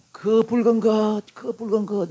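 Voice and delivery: drawn-out high plea for food; hammed-up starving man's cry; crawling, famished Esau. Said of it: "기어오면서".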